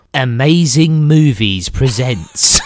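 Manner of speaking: laughing through the words; cracking up as he says it. Real, not acted. Laughing at a cheap film logo.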